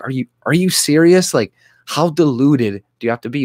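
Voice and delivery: high, loud disbelief; incredulous retort. Retold or imitated. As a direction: ask if they're serious. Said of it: "I'm like".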